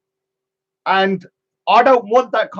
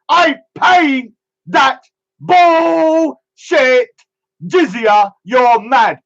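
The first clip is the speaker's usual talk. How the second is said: mock wail; 2 semitones higher, 3 dB louder, much slower than usual. Drawn-out mock wail of the line.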